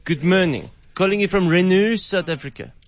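put-on French accent. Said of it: "such a French accent".

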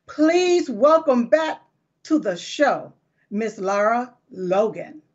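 rolling the name out for the audience; show host intro. Real, not acted. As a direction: welcome her on like a talk-show host. Introducing her guest on the show.

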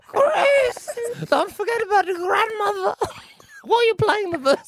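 high, laughing through the words. Real, not acted. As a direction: tease her while cracking up.

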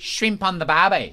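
put-on Aussie twang; mock Australian accent. Host interrupting the accent lesson, mock Australian accent. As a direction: throw in a caricature Australian accent. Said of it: "the Australian accent is really harsh".

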